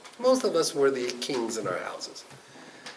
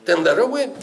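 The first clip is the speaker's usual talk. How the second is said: triumphant retort; 5 semitones higher, 8 dB louder than usual. Acted. Rabbi's punchline retort.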